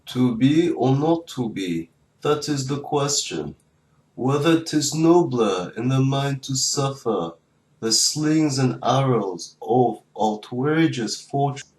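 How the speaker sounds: slow, grand Shakespeare recital; dramatic recital. Acted. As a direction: declaim it slowly like a stage actor.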